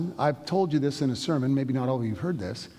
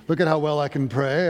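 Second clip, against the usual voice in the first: mock praying voice; 5 dB louder than usual. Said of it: "they even turn on their praying voice".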